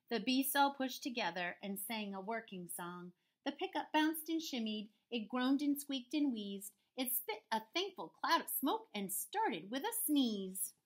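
measured storybook narration; story read-aloud. A narrator's reading. Teacher reading a farm story to pupils, measured read-aloud. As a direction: tell the rhyme in an even bounce. Reads picture book to children.

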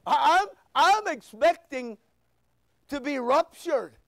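"ruptured" said with an uh in place of rapture's a; slip of the tongue. Real, not acted. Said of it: "I know it's rapture".

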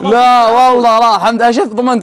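laughing. Real, not acted. Laughing after a teasing remark.

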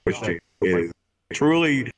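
echo effect. Pretend. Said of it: "that is Force Echo".

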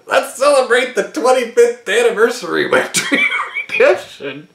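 mock pitch. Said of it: "I don't understand their brainstorm".

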